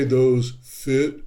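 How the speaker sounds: bored clerk, no enthusiasm; lightly mocked indifferent clerk; flat and bored. Shown as a demonstration. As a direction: toss it off like you don't care. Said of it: "Don't just say".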